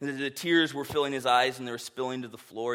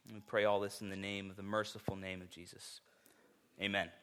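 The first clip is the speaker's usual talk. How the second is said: prayer. Acted. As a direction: pray humbly on behalf of the people. Pastor leads congregation in prayer.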